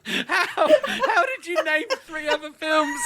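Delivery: high, loud laughing question; can't believe it, laughing through words; laughing disbelief. Real, not acted.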